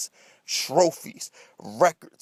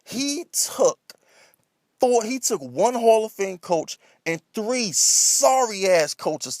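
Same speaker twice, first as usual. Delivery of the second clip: escalating comedy rant; 4 semitones higher than usual. Real, not acted. Heated rant about coaches.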